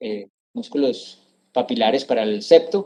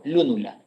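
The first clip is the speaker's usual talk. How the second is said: "lúnula" stressed on LÚ, softly falling; 4 dB quieter than usual. Shown as a demonstration. Teacher explains the missing tilde, softer "lúnula" stressed on LÚ. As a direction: put the weight on the first U of "lúnula". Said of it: "la tilde en la U".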